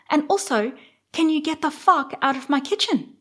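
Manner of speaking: high, loud, exasperated tirade; furious inner rant. Retold or imitated. To party guests in her kitchen, an exasperated imagined rant. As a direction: unload every frustration at the guests. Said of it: "And I'm thinking".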